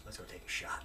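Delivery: quiet invite. Retold or imitated. Captain America's arm around him.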